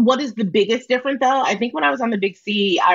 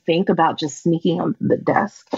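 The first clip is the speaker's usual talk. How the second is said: sultry phone operator. Pretend. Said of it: "Can you do a little for us".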